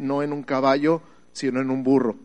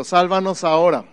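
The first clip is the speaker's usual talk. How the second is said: "Sálvanos ahora" louder for the church to echo; call and response; 5 dB louder than usual. Shown as a demonstration. Pastor has the congregation repeat, a bit louder. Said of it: "Di conmigo".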